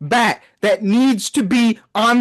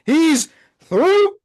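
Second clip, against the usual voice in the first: real fan despair, shouting; anguished shout; 8 semitones higher, much slower than usual. Real, not acted. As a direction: yell it like your team just lost its star. Fan reacting to star leaving.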